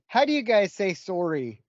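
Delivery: light Canadian-accented impression. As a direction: imitate a Canadian, rounded "sorry". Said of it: "we were playing with this Canadian chick".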